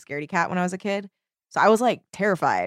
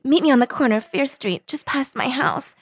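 raised pitch, mildly dramatized plea; pleading; 6 semitones higher, 3 dB louder than usual. A narrator's reading. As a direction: narrator voicing an urgent request. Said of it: "she pleaded".

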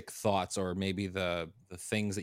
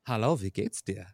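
speaking German. Shown as a demonstration. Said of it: "as someone who speaks German".

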